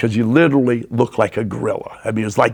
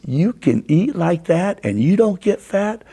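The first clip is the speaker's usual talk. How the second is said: raised pitch, incredulous question; mild disbelief; 5 semitones higher than usual. Retold or imitated. Coach asking the big eater, mildly incredulous. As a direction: question it in mock amazement. Coach amazed at his appetite.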